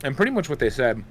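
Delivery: talking while chewing gum; words around a wad of gum. Real, not acted. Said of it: "sorry, I'm, like, chewing gum".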